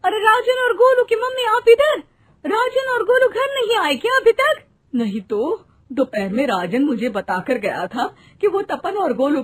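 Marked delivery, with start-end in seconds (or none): 0.0-4.6 anxious. Acted. Worried mother meets others.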